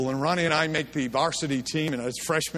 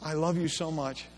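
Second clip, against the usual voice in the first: a soft, tender mother's voice; gentle mom; 5 dB quieter than usual. Retold or imitated. Mother gently telling her son he's running the wrong way, soft. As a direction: break the bad news gently, like Mom. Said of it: "she says".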